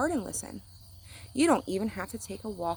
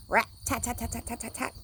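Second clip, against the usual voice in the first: woodpecker tapping; 4 semitones higher than usual. Retold or imitated. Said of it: "He goes".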